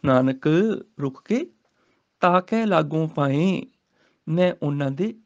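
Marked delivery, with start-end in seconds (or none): 2.2-3.7 slow scripture recitation. Shown as a demonstration. Teacher recites the verse for students, slowly. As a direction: chant the verse slowly, rising.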